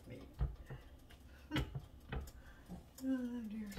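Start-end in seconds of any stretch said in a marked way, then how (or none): none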